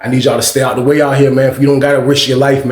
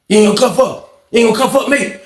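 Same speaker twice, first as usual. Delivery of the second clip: Bird; 6 semitones higher than usual. Retold or imitated. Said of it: "he from Australia".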